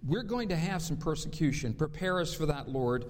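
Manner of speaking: low, hushed prayer voice. Acted. Pastor praying to the Lord before the sermon, reverent and low.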